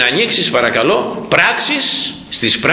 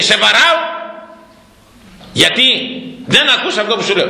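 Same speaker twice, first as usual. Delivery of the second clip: angry reply; 7 semitones higher, faster than usual. Acted. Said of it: "το απαντάει θυμωμένος".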